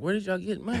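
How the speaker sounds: high, laughing disbelief. Retold or imitated. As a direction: ask it through a laugh. Incredulous quote, laughing.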